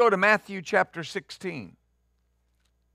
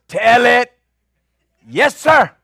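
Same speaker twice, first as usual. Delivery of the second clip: shouted, higher church testimony; loud testimony; 5 semitones higher, 9 dB louder, slower than usual. Retold or imitated. Preacher mimicking a fervent testifier, loud and high. Congregation calling out amen.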